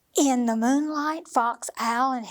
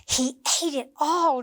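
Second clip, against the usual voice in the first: cheering; 3 dB louder than usual. Acted. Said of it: "cheered Fox happily".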